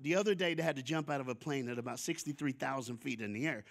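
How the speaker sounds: imitating a casual, offhand brag; nonchalant. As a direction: toss it off like jumping from a plane is nothing. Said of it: "like, nonchalant".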